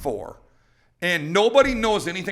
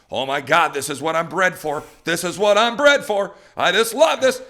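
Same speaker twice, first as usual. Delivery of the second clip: happy excited dog; 3 semitones higher, 7 dB louder than usual. Acted. Puppy thrilled by a live pigeon, building excitement. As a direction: play an overjoyed puppy, more thrilled with each phrase. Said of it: "he's just going happy".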